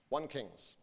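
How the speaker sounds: ordinary delivery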